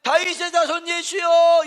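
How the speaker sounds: the ordinary cry for mercy; loud cry. Shown as a demonstration. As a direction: call out firmly, the first take. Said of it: "이랬더라면".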